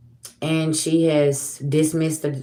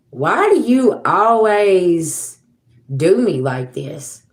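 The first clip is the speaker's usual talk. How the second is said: pleading; 3 semitones higher, 4 dB louder, much slower than usual. Retold or imitated. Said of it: "I'm like".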